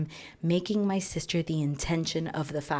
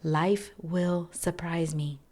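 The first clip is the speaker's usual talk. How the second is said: slow mantra; slower than usual. Shown as a demonstration. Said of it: "I am not in control".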